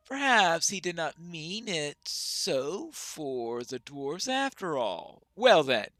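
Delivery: lightly voiced, formal dwarf leader; guarded, measured dwarf sizing up a stranger; a hint of an old-world dwarf, cautious; wary dwarf.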